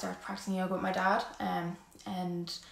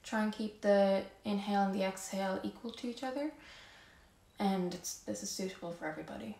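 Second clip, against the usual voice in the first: calm yoga-teacher voice, softer than chatting; guided yoga breathing; 7 dB quieter than usual. Real, not acted. Yoga teacher guiding the class to notice their breath, calm and soft. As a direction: ease them gently into the breath, unhurried.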